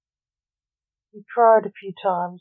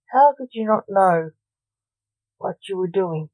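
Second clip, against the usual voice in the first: mild shout. Acted. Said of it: "shouted Blake".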